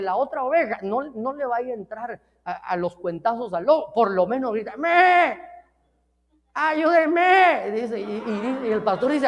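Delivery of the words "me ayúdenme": sheep crying for help. Acted. Stray sheep cries to pastor.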